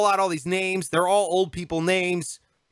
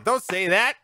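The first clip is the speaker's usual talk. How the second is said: ordinary talk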